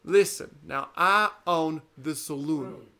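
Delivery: a hint of a swaggering villain; imitating stage line. Recalling a castmate's long line, slow and loud. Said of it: "what was one of your longer lines".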